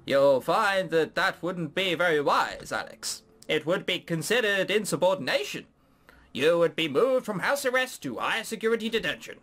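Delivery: lightly cartoonish Canadian official; Canadian accent. Parrot warns Alex about leaving, mock Canadian accent. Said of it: "have I just put a Canadian accent on him".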